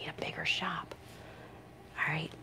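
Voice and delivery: whispered joke aside. Real, not acted. Groomer joking about the big dog, whispered aside. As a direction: breathe the punchline under your breath.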